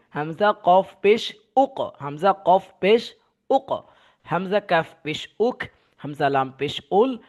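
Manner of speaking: measured, singsong spelling out of syllables; spelling drill recitation. Shown as a demonstration. Teacher drilling students on pesh with jazm, spelling drill recitation. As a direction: chant letter names and vowel, then the joined sound.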